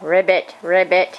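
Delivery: frog croak. Shown as a demonstration. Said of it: "What about a frog?".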